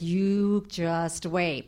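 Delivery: slow, soft menace through a smile; silent threat. Retold or imitated. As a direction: hiss the warning behind a fake grin. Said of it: "when they smile at us".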